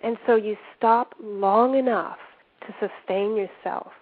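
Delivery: measured guided-imagery voice with pauses between phrases; guided visualization. Acted. Coach leading listeners through an imagined desert, guided visualization.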